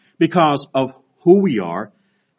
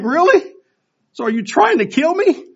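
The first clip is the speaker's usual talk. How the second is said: high, loud, breathless gasping; mock exhausted panting, pitched up; huffing and puffing; 5 dB louder than usual. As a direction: wheeze it out like you're dying on a walk. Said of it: "I'm huffing and puffing".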